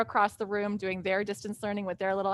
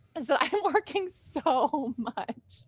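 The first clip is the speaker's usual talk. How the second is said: slow, pitched-up speech, half laughing, half crying; 5 semitones higher than usual. Describing the cost of a heavy workload, laughing while talking. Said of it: "I'm laughing, but I'm kind of crying".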